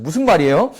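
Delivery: ordinary talk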